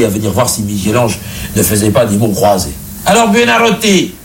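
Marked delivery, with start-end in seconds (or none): 3.1-4.1 much higher, mocking pope voice; teasing pope. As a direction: call out the name as if it were a joke. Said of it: "le pape appelait Michel-Ange".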